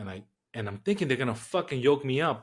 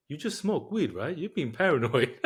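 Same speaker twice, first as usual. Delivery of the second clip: high, amused, chuckling disbelief; teasing laugh; 4 semitones higher than usual. Retold or imitated. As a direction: laugh him off as paranoid. Willie teasing him, laughing.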